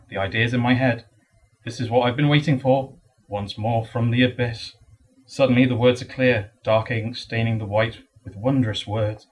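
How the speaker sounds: lightly performed poem recital; poetry reading. Acted. Poet reads writer's block poem to an audience, measured recital. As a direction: recite in short, measured phrases with pauses.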